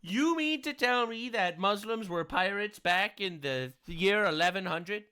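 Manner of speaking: slow, drawn-out sarcastic incredulity; mock disbelief. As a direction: feign astonishment at the news. Mock disbelief at the video's claim.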